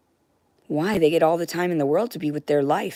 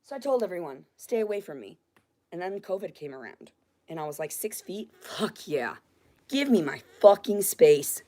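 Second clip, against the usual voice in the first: much softer, drained after the yelling; hushed; 8 dB quieter than usual. Real, not acted. Telling viewers about covid distance in a spent, hushed voice. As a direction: let it come out spent. Soft retelling after outburst.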